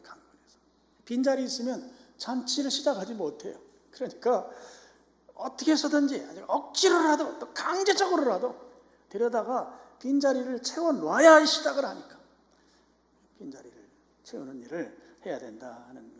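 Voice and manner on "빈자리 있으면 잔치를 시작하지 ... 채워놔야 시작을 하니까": high, loud, mounting pulpit insistence; forceful preaching. Acted. Preacher insisting they bring people in even by force, forceful preaching. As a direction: hammer it out with raised voice.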